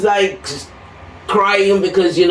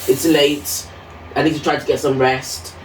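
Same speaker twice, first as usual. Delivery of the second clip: lower, quieter parroting of the nurse's brush-off; a hint of a cold nurse, voiced low; low, flat mock of the harsh nurse; 5 semitones lower, 3 dB quieter than usual. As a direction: mimic her in a low, dismissive drone. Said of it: "very brutal and very harsh".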